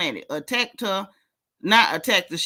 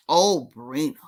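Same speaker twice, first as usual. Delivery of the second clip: low, drawn-out mocking call; pitying sing-song; 6 semitones lower than usual. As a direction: croon her name in fake sympathy. Mock pitying call to Sabrina.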